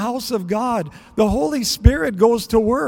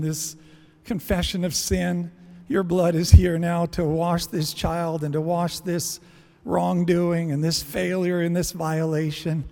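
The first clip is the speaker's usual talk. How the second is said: gentle prayer; 4 semitones lower, 3 dB quieter than usual. Acted. Parent prays over the child.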